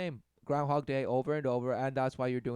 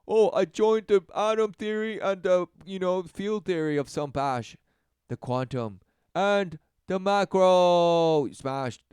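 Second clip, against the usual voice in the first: higher, louder mock boast; mocking know-it-all; 4 semitones higher, 5 dB louder than usual. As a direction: ham up a smug theorist. Mocking pseudo-science talk.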